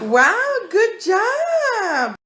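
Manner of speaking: excited praise. Real, not acted. Praising child, shout heard.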